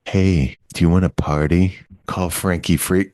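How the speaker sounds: lightly imitated low party-line come-on; late-night hotline ad. Host mimics the Frankie Freako commercial, sultry ad voice. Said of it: "kinda one of those things".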